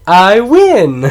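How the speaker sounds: high, loud, stretched victory cry; mock triumphant yell; triumphant movie shout. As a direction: holler it like a gloating winner. Quotes favorite movie moment.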